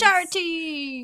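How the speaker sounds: enthusiastic. Real, not acted. Cheering the charity event.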